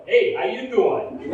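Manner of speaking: mobster greeting. Retold or imitated. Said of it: "I go".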